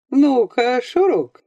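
a father calling his son clearly; a hint of a soldier father calling; father's clear call. A narrator's reading. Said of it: "внятно сказал отец обычным своим голосом, чуть сиплым от стужи".

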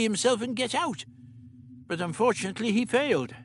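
lightly voiced elderly scientist; the Doctor. A narrator's reading. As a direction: play the Doctor, matter-of-fact.

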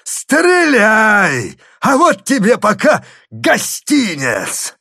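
loud, hoarse, slow mocking bellow; old man roaring taunts from the roof; hoarse shout. A narrator's reading. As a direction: taunt him with a roar. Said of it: "хриплый голос".

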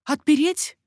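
lightly voiced nervous servant; anxious maid. A narrator's reading.

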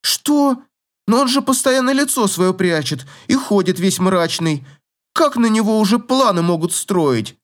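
can't believe it; startled young lady; astonished girl. Acted.

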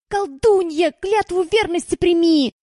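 high, slow, solemn oath; solemn proclamation. Acted. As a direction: proclaim it like a ritual. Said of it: "вдруг загласил бес".

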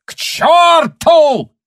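slow, high, loud bellow; yell. A narrator's reading. Officer shouts after Tanya as she leaves, bellowing. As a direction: hurl it after her. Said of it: "крикнул ей вслед Гауптман".

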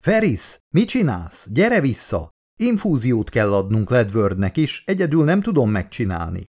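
calling out. Acted. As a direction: shout for help across the ship. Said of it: "a belső kommunikációs egység irányába kiáltott". (sürgető kiáltás a kommunikátorba)

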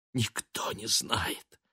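медленный беззвучный шёпот; прошепчи с горем. A narrator's reading. Мать шепчет сквозь горе. (Элиза шепчет сыну, медленно и беззвучно)

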